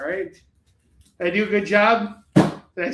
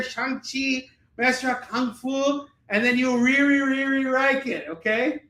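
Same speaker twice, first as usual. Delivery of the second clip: hammed-up pitchman; 5 semitones higher than usual. Hammed-up sales pitch, raised voice.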